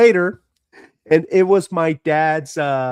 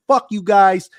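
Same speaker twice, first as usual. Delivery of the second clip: father's anger; 6 semitones higher than usual. Retold or imitated. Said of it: "He said".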